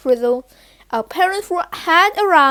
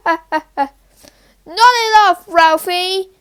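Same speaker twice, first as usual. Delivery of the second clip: sharp, louder scolding at a joking friend; 2 semitones higher, 4 dB louder, slower than usual. Acted. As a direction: tell him off, loud and firm. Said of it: "Keisha scolded him".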